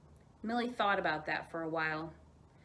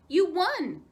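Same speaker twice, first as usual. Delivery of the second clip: cheering; 9 semitones higher, 9 dB louder than usual. Acted. Aunt cheers child.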